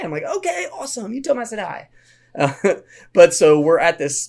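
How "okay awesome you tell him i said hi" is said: put-on high, sing-song reply to a kid; kindly humoring a child. Counselor answering his little camp buddy, high and indulgent.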